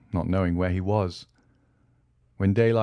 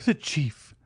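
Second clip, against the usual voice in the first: higher, reaching out in despair; despairing cry; 7 semitones higher than usual. Acted. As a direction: call for the chief, desperate. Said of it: "he exclaimed".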